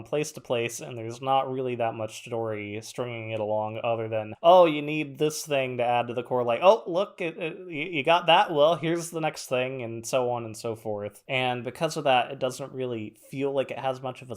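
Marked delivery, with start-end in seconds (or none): 4.4-9.8 mock game guide voice.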